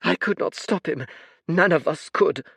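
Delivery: put-on high, tired old man voice; a sorrowful old oracle; weary old seer. Fate's voice.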